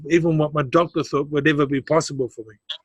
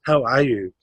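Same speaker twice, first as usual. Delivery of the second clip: mean every word, asking from the heart; a gently caring "How are you?" with weight on "How"; heartfelt; 2 semitones lower than usual. Shown as a demonstration. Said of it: "she was asking me from her heart".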